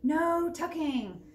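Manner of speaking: loud, high, very slow chant; crew reply. Acted. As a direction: drawl it as a crew. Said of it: "the crew replied".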